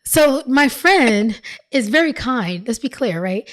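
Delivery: newscaster delivery, formal and announcing; anchor voice. Pretend. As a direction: read it like a TV news anchor. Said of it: "let me put my anchor voice on".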